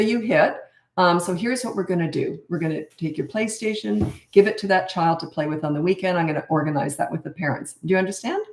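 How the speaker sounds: even, confident parental tone, no anger; calm discipline. Shown as a demonstration. Parent telling a child the consequence, calm and sure. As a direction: state the consequence simply, end on a gentle question. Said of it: "That's how I talk".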